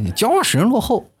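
ordinary delivery

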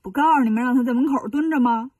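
fast, irritated scolding; fast grumpy rebuke from a woken abbot; annoyed. Acted. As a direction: snap at him for waking you. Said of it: "心里这个生气呀".

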